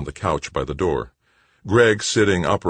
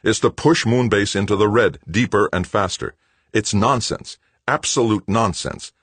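irritated, louder and higher; annoyed retort; 7 semitones higher, 5 dB louder than usual. A narrator's reading. Director countering his brother, annoyed and louder. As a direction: brush him off with irritation. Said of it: "Greg countered annoyedly".

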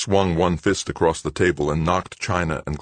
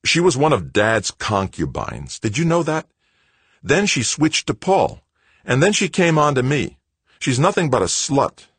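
bitter, high, forceful accusation; angry snarl, louder and higher; 9 semitones higher, 5 dB louder than usual. A narrator's reading. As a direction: spit out the accusations with rising anger. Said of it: "Greg snarled".

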